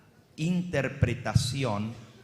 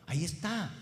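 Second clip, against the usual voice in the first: mock reader; 8 dB quieter than usual. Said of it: "puede decir".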